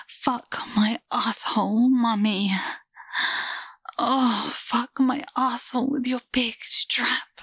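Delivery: pleading with feeling. Pretend. Asked to say it like she means it, eager pleading. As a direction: beg like you really mean it now. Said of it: "Say it like you mean it".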